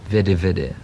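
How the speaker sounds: mock the upper-class British veddy for very; posh veddy. Rolf mocking posh English while trying to sound British. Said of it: "spelled V E D D Y".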